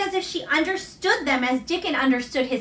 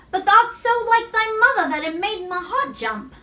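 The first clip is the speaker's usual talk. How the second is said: Yorkshire mother; 7 semitones higher than usual. A narrator's reading. Susan answering Colin, a lightly voiced Yorkshire mother. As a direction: speak as a kind country mother.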